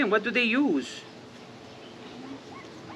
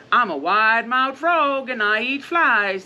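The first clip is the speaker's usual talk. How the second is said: a touch louder bragging frog; 3 semitones higher, 3 dB louder than usual. Acted. Storyteller voicing the frog to the alligator, boastful. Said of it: "said the wide-mouthed frog".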